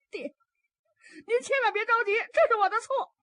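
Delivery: high, anxious pleading son; a son begging his angry father not to be upset. Acted. 儿子向发怒的父亲求饶. (高声惶恐的儿子求饶)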